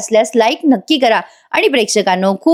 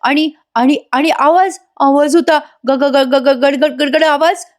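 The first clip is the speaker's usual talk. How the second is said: high, stuttering mock cry; imitated agitation, words repeating and stumbling; acted outcry; 5 semitones higher than usual. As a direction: blurt broken memories in a raised pitch. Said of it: "मोठ्याने सुमन ओरडते".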